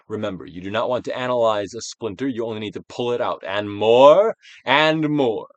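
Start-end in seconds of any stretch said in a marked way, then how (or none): 3.4-5.5 slow urging. Acted. Urging slowly.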